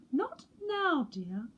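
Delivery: high, gently dismissive mum; mother penguin voice. A narrator's reading. Mother penguin tells chick to wait, high and kind. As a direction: brush the chick off sweetly. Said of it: "said Missus Pilchard Brown".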